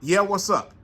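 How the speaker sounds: bored, dismissive "Yeah, what's up?"; curt, offhand greeting. Retold or imitated. Contrasting with good service, a bored clerk's greeting. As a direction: shrug the greeting off. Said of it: "None of that".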